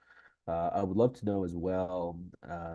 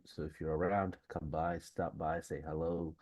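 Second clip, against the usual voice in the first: nasal voice; 2 semitones lower, 4 dB quieter than usual. Real, not acted. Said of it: "please don't mind my nasally voice".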